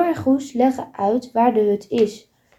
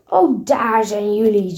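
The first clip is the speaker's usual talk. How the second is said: hoarse heavy tone. Acted. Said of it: "op een schorre, zware toon".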